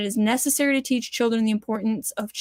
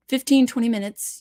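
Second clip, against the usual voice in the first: ordinary talk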